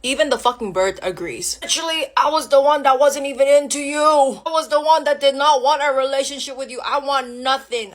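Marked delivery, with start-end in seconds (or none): 1.6-7.9 insistent, aggrieved protest; indignant rant. Acted. Woman confronts ex who pursued her first, indignant protest. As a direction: hammer out the grievance.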